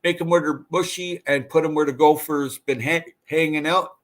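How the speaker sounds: talking through a burp; words caught on a burp. Real, not acted. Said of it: "Excuse me, I'm burping".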